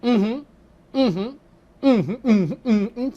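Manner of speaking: soft, monotonous uhum over and over; 지루하게 반복하는 작은 "uhum"; repetitive uhum. Shown as a demonstration.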